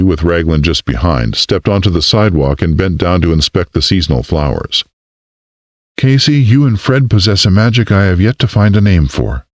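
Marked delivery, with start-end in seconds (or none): 6.0-9.5 marveling. A narrator's reading. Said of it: "she marveled".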